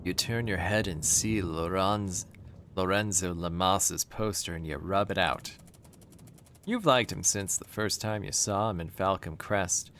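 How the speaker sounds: even, understated game narration; story narration. A narrator's reading. Player reads about the poster on the wall, even narration. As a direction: read it out like a storyteller.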